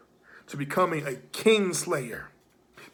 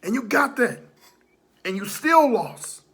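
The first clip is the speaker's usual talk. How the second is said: wrestling promo; 5 semitones higher, 5 dB louder than usual. Acted. Promo loud taunting recap.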